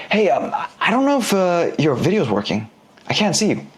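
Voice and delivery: hesitant, questioning call opener; unsure tone. Shown as a demonstration. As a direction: sound a little unsure, not salesy. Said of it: "You pop in that kinda unsure tone here".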